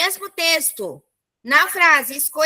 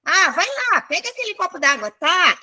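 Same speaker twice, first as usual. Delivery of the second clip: demonstrated coaxing, higher at the start; coaxing request; 4 semitones higher than usual. Shown as a demonstration. Teacher acting out asking for a glass of water, coaxing request. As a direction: coax lightly, ending on a questioning "tá?". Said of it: "Então, ele tá pedindo".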